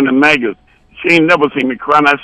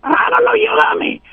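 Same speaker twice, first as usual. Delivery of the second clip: mock female falsetto. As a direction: play her in teasing falsetto. Voices woman in retold dialogue.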